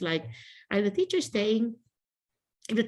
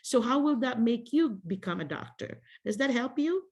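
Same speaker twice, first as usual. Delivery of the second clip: gentle teacher voice. Shown as a demonstration. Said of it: "you have to do your adult voice".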